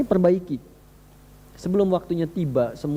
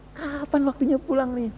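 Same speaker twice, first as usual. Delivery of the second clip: longing; 8 semitones higher than usual. Retold or imitated. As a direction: imitate someone longing to go home. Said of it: "Udah rindu". (menirukan kerinduan ingin pulang)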